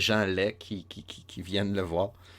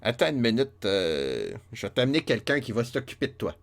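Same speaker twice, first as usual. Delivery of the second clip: cheerful Irishman; 3 semitones higher than usual. Retold or imitated. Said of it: "il se frappe le front et dit".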